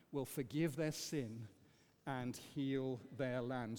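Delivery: slow, solemn reading aloud together; group scripture reading. Real, not acted. Congregation reading Chronicles aloud together, slow and solemn. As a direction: read it slowly, weighing each phrase. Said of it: "Let's read this together".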